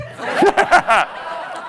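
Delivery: laugh. Real, not acted. Laughs at "my peeps.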